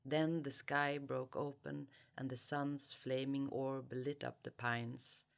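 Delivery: calm, measured literary reading; story reading. Acted. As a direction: read the novel's opening aloud. Reads opening section aloud.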